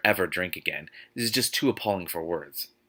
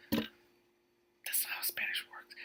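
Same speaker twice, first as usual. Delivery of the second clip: breathless whisper, slow and deflated; whispered aside; 14 dB quieter, much slower than usual. Real, not acted. Reader, giving up on the book's Spanish, whispers. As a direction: mutter it in despair, barely audible. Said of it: "aside about the Spanish".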